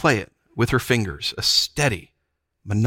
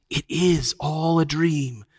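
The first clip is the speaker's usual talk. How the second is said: slow, higher, drawn-out croon; lulling witch; 5 semitones higher, slower than usual. A narrator's reading. Witch lulling Jill while thrumming, slowly crooning. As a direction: spellbind with sweet certainty. Witch lulls the enchanted children.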